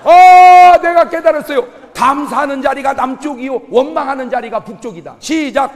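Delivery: loud, high, ringing pulpit voice; full-force preaching. Acted. Pastor rousing the congregation, loud and ringing. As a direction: drive the lesson home to the crowd.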